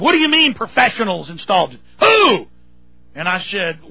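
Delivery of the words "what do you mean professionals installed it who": interrogating. Retold or imitated. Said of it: "she starts interrogating".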